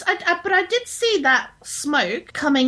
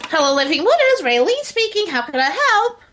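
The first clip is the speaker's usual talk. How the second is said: a bright put-on receptionist voice; phone receptionist greeting. Raylene picking up the hotline, chirpy receptionist voice. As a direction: answer the church hotline sweetly.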